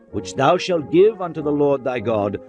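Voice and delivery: ordinary delivery, nothing marked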